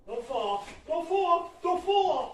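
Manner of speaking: rising, pleading don't fall; anxious self-warning. Real, not acted. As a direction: nervously coax yourself steady. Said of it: "I'm gonna fall".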